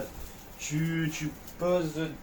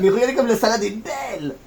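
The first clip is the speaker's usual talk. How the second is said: excited; 7 semitones higher, 5 dB louder than usual. Real, not acted. Showing off the salad.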